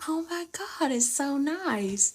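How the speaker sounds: gushing viewer. Retold or imitated. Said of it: "y'all are like".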